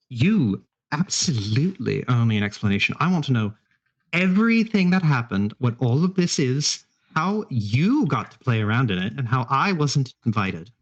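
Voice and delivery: emphatic, swooping pitch on key words; indignant demand. Acted. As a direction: demand answers, leaning on each grievance. Player voices character demanding an explanation.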